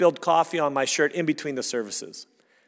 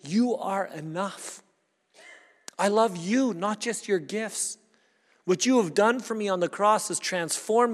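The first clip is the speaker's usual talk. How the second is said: sincere prayer; 3 semitones higher than usual. Acted. Believer telling Christ he is enough, sincere. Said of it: "we say".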